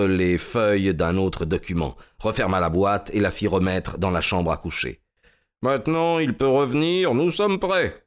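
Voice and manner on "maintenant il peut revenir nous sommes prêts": raised pitch, rising to a cry of readiness; exclaiming. A narrator's reading. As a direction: announce it with mild excitement. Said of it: "s'écria-t-il".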